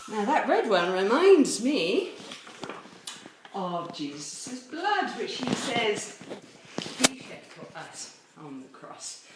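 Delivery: slow, out of breath after running. Real, not acted. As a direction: catch your breath between words. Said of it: "I'm a little bit out of breath".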